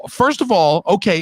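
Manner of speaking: usual speaking voice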